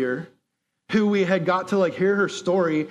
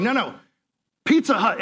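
insistent correction; 5 semitones higher than usual. Retold or imitated. Insisting to taxi driver.

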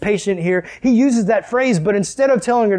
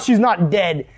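incredulous echo; slower than usual. Acted. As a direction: throw the words back in disbelief. Mourners throw his words back.

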